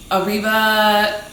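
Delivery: put-on slow, drawled American-accent Arriba; mock American accent. Tipsy lady toasting her friends, in a slow, mock American-accent Arriba. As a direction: stretch out Arriba. like a tipsy American tourist, lightly mocked. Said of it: "her terrible accent".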